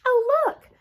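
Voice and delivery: high, loud delighted cry; girl spotting a magnifying glass, high excited shout; excited find. A narrator's reading. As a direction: call out the discovery. Sister finds magnifying glass.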